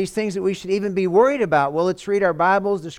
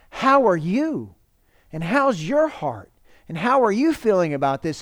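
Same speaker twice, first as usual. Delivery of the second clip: gentle concern. Acted. Pastor voicing care to a wounded person.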